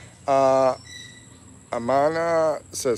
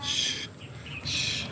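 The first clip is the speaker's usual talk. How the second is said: imitating a shush; 10 dB quieter than usual. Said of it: "She was like".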